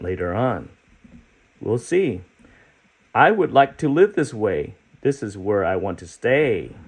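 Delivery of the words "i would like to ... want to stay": lightly voiced eager character; storybook character voice. Teacher reading the book to kids, lightly voiced eager creature. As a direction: read it as the hopeful spotted creature.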